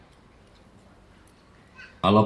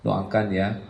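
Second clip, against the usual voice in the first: soft, lowered mock-modest voice; fake-humble, a little quieter and lower; humble-brag reply; 5 semitones lower, 5 dB quieter than usual. To a nosy friend, mock-modest soft humble-brag. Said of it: "Hilang lima tahun tuh".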